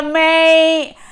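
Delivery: put-on Australian accent. Jokey Aussie sign-off after Australia.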